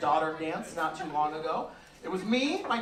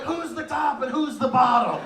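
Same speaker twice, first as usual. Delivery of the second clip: judging onlookers; 8 semitones higher, 6 dB louder, slower than usual. Retold or imitated. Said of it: "looking at you like".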